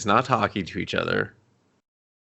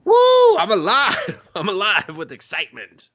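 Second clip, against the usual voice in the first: mock exhilaration; 5 semitones higher than usual. Woman fleeing in the car, hammed-up high thrill. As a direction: whoop it up, pitched way high. Acted whooping thrill of escape.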